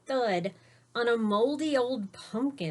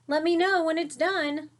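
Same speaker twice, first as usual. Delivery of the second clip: breezy neighbor voice; 9 semitones higher, 6 dB louder than usual. A narrator's reading. Neighbors quoted in story.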